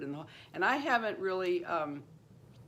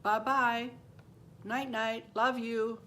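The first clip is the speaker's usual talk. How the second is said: put-on high child's voice saying goodbye; imitated child, pitched up in short sing-song farewells; little girl's goodnight; 5 semitones higher, slower than usual. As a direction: chirp a goodnight like a small girl. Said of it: "She goes".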